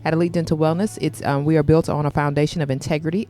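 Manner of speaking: polished sponsor announcement voice; sponsor ad read. Acted. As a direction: sell the dental practice like a radio spot.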